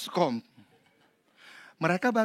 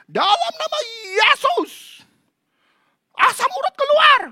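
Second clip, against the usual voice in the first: shouting pastor; 10 dB louder than usual. Retold or imitated. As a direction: command the gout out in Jesus' name. Pastor voiced praying loudly. (pendeta berteriak dengan nada sangat tinggi)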